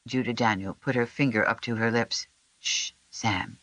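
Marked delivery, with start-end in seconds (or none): 2.6-3.6 whispered shush; quiet whispered shush to the sick boy. A narrator's reading. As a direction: hush him gently in a whisper. Finger to lips, shushing.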